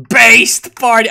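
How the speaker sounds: loud gleeful exclamation; cheering. Real, not acted. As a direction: hail it like a rallying cry. Cheering a party.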